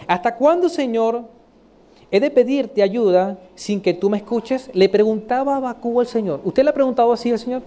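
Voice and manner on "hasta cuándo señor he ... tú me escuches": measured, pleading scripture reading. Acted. Prophet questions God, read as a plea. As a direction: read it as the prophet's complaint, opening raised.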